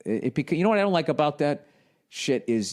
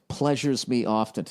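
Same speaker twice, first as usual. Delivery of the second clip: mocking repeat.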